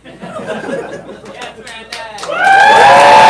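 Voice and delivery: loud shout across the room; calling out. Real, not acted. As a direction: yell the name out.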